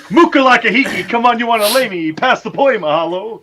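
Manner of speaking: fast, high mock Hawaiian; mock Hawaiian accent. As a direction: rattle off fake Hawaiian. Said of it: "Do you speak Hawaiian".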